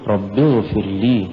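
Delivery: slow even "رب اغفر لي"; correct recitation. Shown as a demonstration. Teacher demonstrating the right reading to students. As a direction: recite "رب اغفر لي" without pushing "لي". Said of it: "قل".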